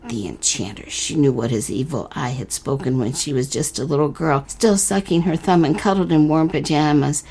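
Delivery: unhurried storyteller reading a fairy tale; story narration. A narrator's reading. Host reading the letter-writer's story to listeners, narrating. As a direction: read it like a bedtime tale.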